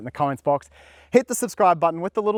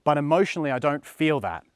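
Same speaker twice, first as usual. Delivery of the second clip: skeptical viewer. Retold or imitated. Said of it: "You're thinking".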